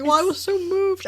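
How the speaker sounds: high, fake-earnest "so moved"; insincere. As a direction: play it as an obvious lie. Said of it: "would not believe it".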